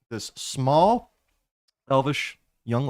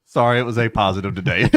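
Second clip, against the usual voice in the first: laughing excuse; 7 dB louder than usual. Acted. Joking, laughing as vampire.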